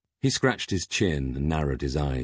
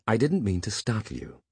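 lightly voiced, higher robot servant; apologetic robot butler; 6 semitones higher than usual. A narrator's reading. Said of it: "apologized the faithful robotic butler".

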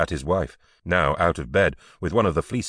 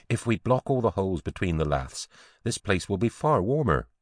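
slightly higher, lightly voiced woman; lightly voiced wife; 4 semitones higher than usual. Wife to husband about the draughty hut, lightly voiced wife. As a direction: give the wife a light lift.

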